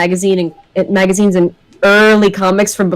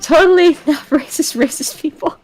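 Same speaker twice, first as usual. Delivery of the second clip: sarcastic praise; 6 semitones higher than usual. Real, not acted. Sarcastic jab at racists.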